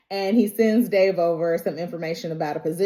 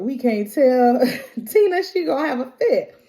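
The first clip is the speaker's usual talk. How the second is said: higher, fretful imitation of the kids; worried kids; 4 semitones higher, 3 dB louder than usual. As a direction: fret like scared grown children. Kids fret about telling Tina.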